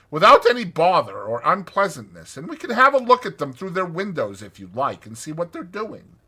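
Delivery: a bold friend coaxing a nervous one along; confident Rat. A narrator's reading. Rat reassures Mole on the road.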